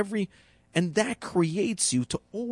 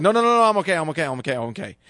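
anxious self-reassurance; much faster than usual. Retold or imitated. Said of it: "Instead of trying to have the need of certainty".

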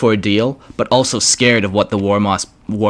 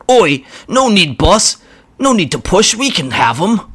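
much higher squeaky goblin voice; a nervous goblin pleading with the boss; grot voice; 9 semitones higher, 4 dB louder than usual. Acted.

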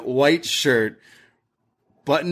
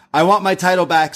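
a hammed-up wrestler's promo yell, pitched up; mock promo shout; 8 semitones higher, 4 dB louder, faster than usual. Host imitating Roxanne's promo, mock promo shout. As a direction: bark it like a heel cutting a promo.

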